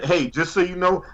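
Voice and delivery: normal talking voice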